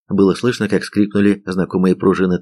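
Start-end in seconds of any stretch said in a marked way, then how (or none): none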